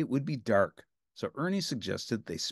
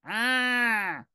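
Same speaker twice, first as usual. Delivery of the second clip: shape screaming; 11 semitones higher than usual. A narrator's reading. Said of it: "screamed the shape".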